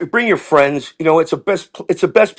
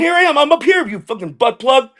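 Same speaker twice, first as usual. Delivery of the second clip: much higher, laughing taunt from up high; gloating brag; 9 semitones higher than usual. Retold or imitated. Skydiving student taunting the instructor from the top, high gloating crow. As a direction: crow at the instructor like a smug kid.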